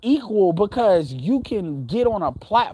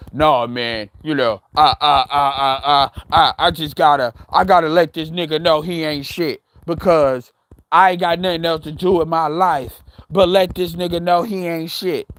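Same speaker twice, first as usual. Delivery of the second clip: low, dopey stammering mock voice; mocking troll voice; 4 semitones lower, 3 dB louder than usual.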